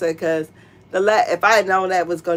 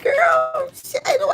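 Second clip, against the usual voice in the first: mock sassy quote; slower than usual. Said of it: "I'm like".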